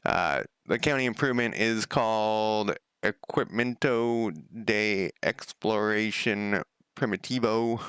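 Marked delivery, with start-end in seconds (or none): 3.0-7.8 clumsy attempt at a Spanish accent; terrible Spanish accent. Real, not acted. Streamer reads out the game's Spanish item name, terrible Spanish accent. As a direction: read it in badly done Spanish. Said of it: "my terrible Spanish accent".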